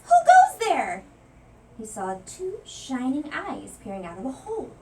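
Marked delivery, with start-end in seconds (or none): 0.0-1.0 slow, loud, high call; loud cry. A narrator's reading. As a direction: call it out to the stranger. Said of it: "cried Louis".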